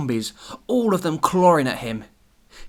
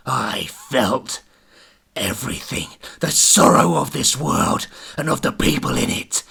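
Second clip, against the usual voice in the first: a hint of a ghostly being; mysterious voice; 4 dB louder than usual. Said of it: "mysterious voice".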